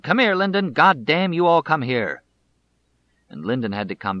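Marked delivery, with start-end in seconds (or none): 0.0-2.2 high, loud furious shout at the son; angry yell. Retold or imitated. Father shouting at his fleeing son, loud and furious. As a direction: bellow for the runaway boy to come back. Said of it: "Mister Sam yelled".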